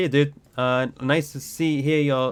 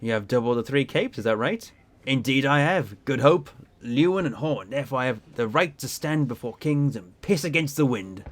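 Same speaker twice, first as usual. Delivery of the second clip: lightly voiced proud sailor; boastful sea captain. Captain boasts of capes he rounded, lightly proud. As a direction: play an old salt with a touch of swagger.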